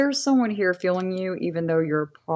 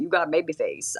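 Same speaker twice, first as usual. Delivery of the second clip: a touch of mimicked country accent; lightly put-on country twang; 3 dB quieter, faster than usual. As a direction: repeat his line in a mild country accent. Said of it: "He said it with that country accent".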